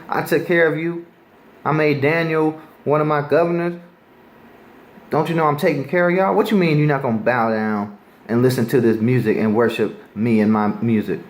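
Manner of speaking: an angry king scolding, rising in pitch toward the end; preacher voicing an angry Nebuchadnezzar to the crowd; mad king. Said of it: "So he was mad".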